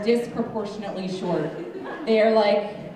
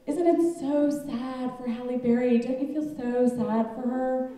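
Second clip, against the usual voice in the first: mock sympathy; 4 semitones higher than usual. Voicing mock public pity for celebrity.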